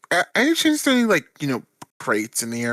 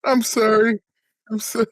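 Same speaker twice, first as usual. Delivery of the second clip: laughing apology; 8 semitones higher, 3 dB louder than usual. Real, not acted.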